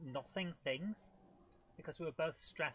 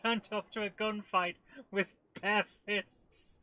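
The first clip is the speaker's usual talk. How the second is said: laughing; 6 semitones higher, 10 dB louder, slower than usual. Real, not acted. Laughing at own blunder.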